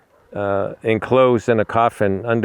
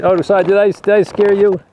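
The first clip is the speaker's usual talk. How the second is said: much higher, cooing pet-talk voice; high-pitched apology; 10 semitones higher, 4 dB louder than usual. Real, not acted. Apologizing to an animal after yelling, high-pitched.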